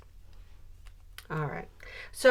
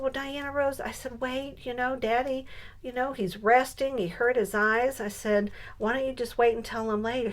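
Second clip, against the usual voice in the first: gently stalling; 5 semitones higher than usual. Retold or imitated. Grandma gently stalls the child.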